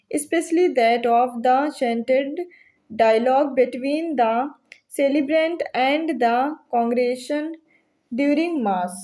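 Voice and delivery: each English phrase read out slowly, like dictation; slow question reading. Shown as a demonstration. Teacher reading a quiz question slowly to students.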